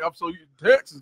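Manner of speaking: lightly imitated Texas accent; a hint of local Texas speech; imitated Texas talk. Guest showing how Texas locals talk, light Texas accent. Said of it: "'cause that's how they talk".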